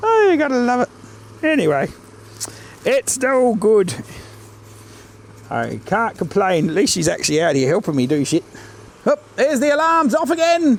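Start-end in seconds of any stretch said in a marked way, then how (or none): 0.0-3.9 amused, said through a little chuckle. Speaker talks about his wife's doubts during inspections, chuckling.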